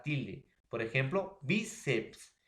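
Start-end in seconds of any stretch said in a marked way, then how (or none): 1.4-2.4 bíceps with BÍ lifted and held; stress on BÍ. Shown as a demonstration. Teacher giving grave word examples, stressing BÍ in bíceps. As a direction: lean on the first syllable of bíceps. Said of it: "grave termina en S".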